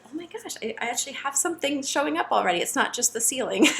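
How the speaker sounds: high-pitched excited realization. Retold or imitated. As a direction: relive the thrill of spotting it. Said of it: "I was so excited".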